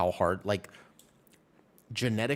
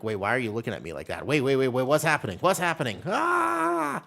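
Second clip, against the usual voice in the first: mock panic; 3 semitones higher, 4 dB louder than usual. Retold confused panic in Thailand.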